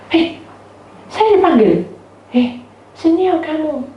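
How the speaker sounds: high-pitched calling out; imitated summons. Woman summons the speaker, high calling voice.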